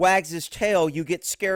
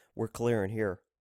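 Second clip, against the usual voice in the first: mock whisper, much lower, quieter; 9 semitones lower, 8 dB quieter than usual. Mocking this guy who whispers while clearing an apartment, mocking a whisper. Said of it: "this guy's whispering".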